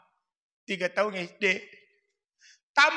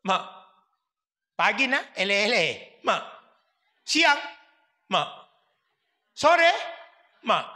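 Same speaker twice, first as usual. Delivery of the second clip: calling out for mom. Retold or imitated. Child calling for mother repeatedly.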